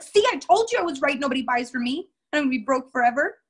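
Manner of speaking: exaggerated told-you-so; mocking gloat. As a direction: ham up a smug loser. Mocking self-defeating seller.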